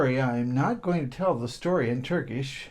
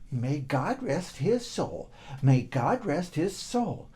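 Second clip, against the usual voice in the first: solemn repeat; slower than usual. Acted. Boy repeats blessing walking.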